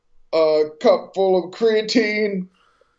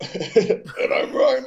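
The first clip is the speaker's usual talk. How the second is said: dude voice; 6 semitones higher, much slower than usual. Acted. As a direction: push a tough dude voice. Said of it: "My throat really hurts from trying to talk like this".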